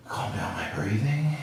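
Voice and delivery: whispering. Real, not acted. Steadying breath in ice bath.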